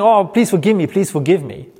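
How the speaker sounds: mock begging for forgiveness; pleading in a hammed-up whine; desperate rambling plea. Preacher mocking a frantic plea for forgiveness, whiny. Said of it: "He's not just saying".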